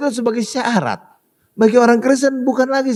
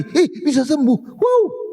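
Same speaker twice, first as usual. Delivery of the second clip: high voice of disbelief; amazed gasp; 5 semitones higher, slower than usual. Acted. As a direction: marvel at the healing. Voicing amazed onlookers.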